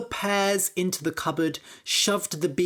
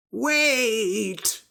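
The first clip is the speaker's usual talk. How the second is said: shout; 5 semitones higher than usual. Acted. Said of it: "shouted the priest".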